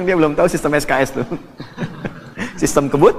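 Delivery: quick, laughing aside about the exam system; laughing quip. Retold or imitated. Preacher joking to students, fast and laughing. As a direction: rattle it off fast through a laugh. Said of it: "Saya bilang".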